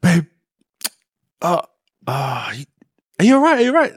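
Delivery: hammed-up fake alarm, voice climbing high; mock panicked. Faking panic on the phone.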